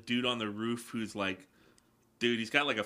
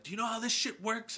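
high-pitched, quick quote of a film villain; imitated movie line; 12 semitones higher, faster than usual. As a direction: toss off the line in a raised pitch. Quoting Tony Todd's movie line.

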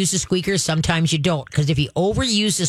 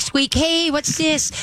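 much higher, excited call; dog cheerleader; 9 semitones higher, much slower than usual. Shown as a demonstration. Trainer luring the dog's head, high and excited. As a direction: grab the dog's attention playfully. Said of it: "to see the squeak".

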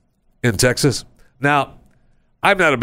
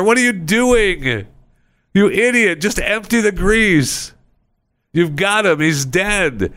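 exasperated yelling; 8 semitones higher, slower than usual. Acted. Yelling at guy with fryer cage.

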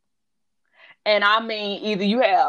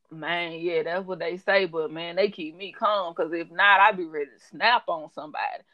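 lightly imitated client, low-pitched; a hint of a low-voiced, easygoing man; slow-talking client; 4 semitones lower than usual. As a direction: mimic a laid-back slow talker, low. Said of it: "like, a slow talking person".

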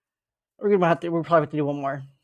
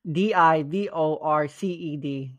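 spelling it out; 2 semitones lower than usual. Shown as a demonstration. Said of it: "There's no second I".

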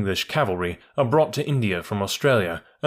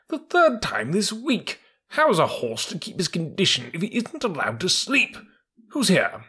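indignant troop horse; 5 semitones higher than usual. Acted.

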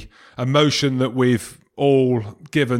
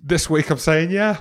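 laughing; 5 semitones higher than usual. Real, not acted. Laughing bold Grand Slam prediction.

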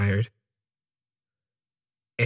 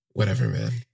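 dismissive friend; 10 semitones lower than usual. Retold or imitated. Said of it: "he's like".

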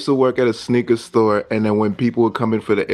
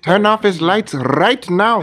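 slow, high words through laughter; laughing; 7 semitones higher, slower than usual. Real, not acted. Friend cracking up at the lights, laughing. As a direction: gasp it out mid-laugh.

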